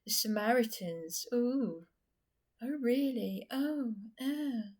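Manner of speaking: high mocking "oh really"; mocking men. A vlogger mimics men mocking her call, high mocking sneer. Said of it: "with everything that I was saying".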